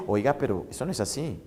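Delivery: a quiet, moralizing lecture to yourself; the superego lowering its voice to rein in desire; stern conscience voice. Acted. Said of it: "El super yo es el que te empieza a decir".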